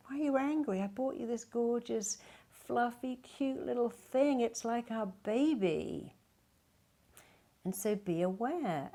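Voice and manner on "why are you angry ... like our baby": higher, slightly bewildered husband voice; puzzled husband. Retold or imitated. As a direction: play the hurt husband who thinks he gave a gift. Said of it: "And he was like".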